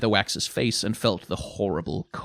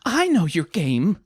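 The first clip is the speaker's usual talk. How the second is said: high, louder challenge; accusing; 9 semitones higher, 5 dB louder than usual. Acted. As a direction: confront her as if you see through her. Lettuce accuses Granny.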